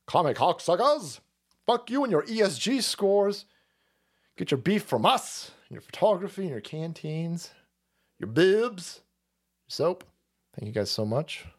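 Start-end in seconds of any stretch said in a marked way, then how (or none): 0.0-10.0 defiant sales pitch. Acted. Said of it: "as a way to say".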